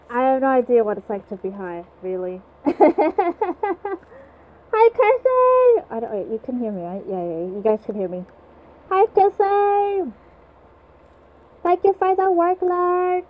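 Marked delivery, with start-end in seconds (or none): 2.7-5.9 high, loud happy call; excited greeting. Real, not acted. Greeting viewer on stream. 5.9-13.2 muffled through a mask; through a face mask. Real, not acted. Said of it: "I'm talking through a mask".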